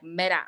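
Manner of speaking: "Mira" with the R left unpronounced; lax Puerto Rican R. Shown as a demonstration. Puerto Rican educator showing how she speaks, lax R in "Mira". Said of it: "I don't pronounce my R's".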